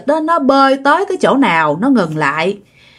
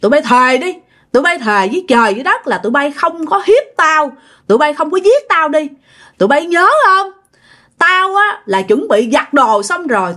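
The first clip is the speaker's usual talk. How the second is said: raised, fierce interrogation; possessed accusing; 4 semitones higher than usual. Retold or imitated. Possessed woman demanding the killers swear, raised fierce accusation. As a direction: press them hard, voice raised. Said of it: "bà nói rằng á là".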